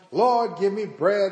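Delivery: a touch of pulpit calling; preacher calling out. Acted. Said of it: "was preaching and preaching".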